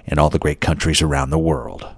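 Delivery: self-important pitchman read, lightly hammed; sounding important. Shown as a demonstration. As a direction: puff it up like a big promo line, half in jest. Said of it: "How's that for sounding important?".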